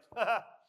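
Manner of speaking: short, loud, high laugh; scoffing laugh. Acted. Goliath sure of the odds against David, scoffing laugh. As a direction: burst out in a mocking ha-ha.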